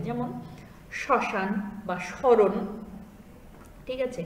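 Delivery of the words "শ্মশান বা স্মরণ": শ্মশান and স্মরণ said slowly and nasalized; nasal demo words. Shown as a demonstration. Teacher demonstrating nasal words for the class. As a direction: draw শ্মশান বা স্মরণ out through the nose. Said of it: "আনুনাসিকভাবে উচ্চারণ করতে হবে".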